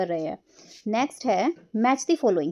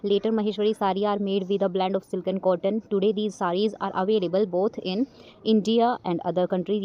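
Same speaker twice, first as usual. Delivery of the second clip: slow, careful textbook reading; teacher narrating an English passage, slow and clear; reading a passage aloud; 2 semitones lower, much slower than usual. Acted. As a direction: read it out slowly for the class. Reads sentences from the book.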